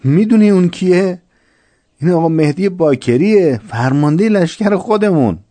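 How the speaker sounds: high and loud, urgent announcement; high, loud urgent exclamation; excited reveal. Acted. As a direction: blurt it out, astonished they didn't know. Soldier reveals the commander's identity.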